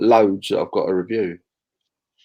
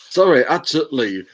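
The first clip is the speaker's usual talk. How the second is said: higher West Country accent imitation; teasing West Country accent, pitched up; Chris's accent; 6 semitones higher than usual. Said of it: "Chris's accent".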